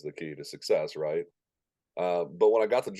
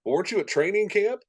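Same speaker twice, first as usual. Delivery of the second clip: much higher, mock-incredulous retelling; incredulous question; 4 dB louder than usual. MC questions the unprepared new announcer, mock incredulous. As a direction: imitate a colleague's high-pitched disbelief.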